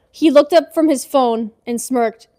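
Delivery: smirking delivery. Shown as a demonstration. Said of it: "Okay, I'm gonna recreate that".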